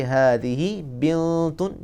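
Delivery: बिन्तुन slowly with a light nasal n; nasal ghunna. Shown as a demonstration. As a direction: hold the nasal in बिन्तुन briefly. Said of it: "थोड़ा सा गुन्ना भी करेंगे".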